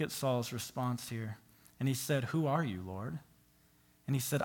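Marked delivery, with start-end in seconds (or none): 2.2-3.2 stunned Saul. Acted. Saul's stunned reply, read quietly.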